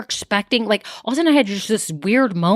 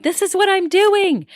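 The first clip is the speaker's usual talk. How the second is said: high, bright mock-busy voice, well above her own; busy go-getter; 11 semitones higher, 3 dB louder than usual. New business owner boasting while rushing around, high mock voice. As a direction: play the frantic new owner proudly showing off. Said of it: "running around going".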